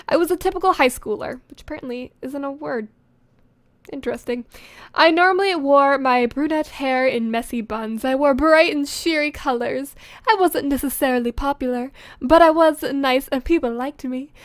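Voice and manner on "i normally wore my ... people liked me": hammed-up first-person narration; dramatic story reading. Author reading her old story to viewers, dramatic narration. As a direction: read it like melodramatic teen fiction. Reads own story aloud.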